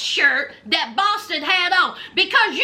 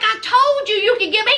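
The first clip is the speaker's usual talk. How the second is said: higher, fast mock bragging; mock boast; 5 semitones higher, faster than usual. Host imitating Hottie bragging to Ty, higher. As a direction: toss it off high and quick. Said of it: "He was like".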